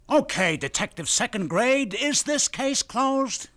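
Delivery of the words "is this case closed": each word slowly, pressing; slow pointed question. Acted. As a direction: drag it out to make him answer. Lieutenant pressing detective for answer.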